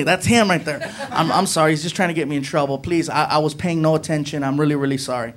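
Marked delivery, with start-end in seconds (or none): 1.1-5.3 mild pleading apology. Retold or imitated. Apologizing to officer.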